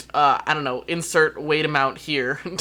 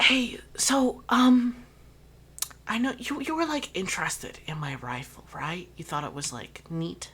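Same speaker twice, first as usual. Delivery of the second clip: leaning-in, intimate whisper, in character; 3 semitones higher, 4 dB quieter than usual. Voicing a character who tugs a player's sleeve: whispering in character. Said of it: "tug on your sleeve to whisper to you".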